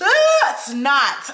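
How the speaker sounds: high, breaking wail; sobbing cry. Retold or imitated. Breaks down crying to her friend, high and sobbing. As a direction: let the voice crack into a sob. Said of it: "I'm talking".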